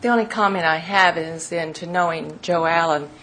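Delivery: winded, short of breath. Real, not acted. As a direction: speak while catching your breath. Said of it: "pardon me, I'm out of breath".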